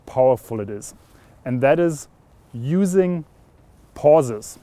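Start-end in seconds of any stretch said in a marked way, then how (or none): 2.5-4.6 "using", then a held pause before a falling "pauses"; pauses for emphasis. Shown as a demonstration. Coach revealing the secret technique, pausing for emphasis. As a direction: leave a gap before "pauses" to make it land. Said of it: "using pauses in the way you speak to emphasize".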